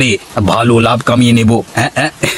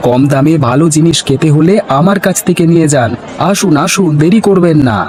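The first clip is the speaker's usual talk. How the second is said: higher, calling out to passing buyers; hawking fish; 5 semitones higher than usual. Acted. Seller calls buyers to fresh fish, hawker's call. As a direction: sell it like a market hawker.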